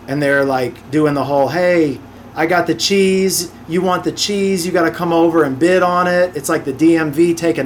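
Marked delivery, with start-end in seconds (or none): 1.5-6.3 lightly mimicked cocky seller; copping attitude. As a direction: imitate a caller making buyers compete. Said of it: "just copping a bunch of attitude".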